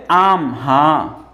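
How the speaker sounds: slow, drawn-out yes; slow agreeing citizen. Retold or imitated. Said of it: "नागरिक बोले". (धीमा स्वीकार करता नागरिक)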